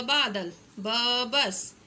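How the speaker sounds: very slow बादल, ब बस; slow sounding out. Shown as a demonstration. Teacher sounding out words for children, very slowly. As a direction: stretch it out for learners. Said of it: "तो हमने ब पे ज़ोर देना".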